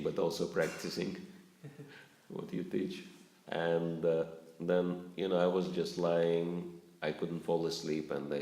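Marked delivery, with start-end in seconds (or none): 2.3-3.0 soft laugh under the words; amused, laughing aside. Real, not acted. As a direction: let the laugh carry it. Chuckling at own irony.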